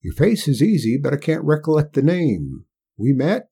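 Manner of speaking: put-on a stubborn backwoods old-timer; old country man. Old Hark voiced by narrator.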